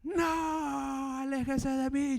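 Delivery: yelling him away in alarm; retold high yell. Woman at the market screaming at the salesman, high frightened cry. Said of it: "esa señora me grita".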